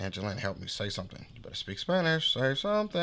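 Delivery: re-enacted mild panic, asking a companion; retold nervous plea. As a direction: plead for help, pitch climbing. Acted urgent plea to his companion.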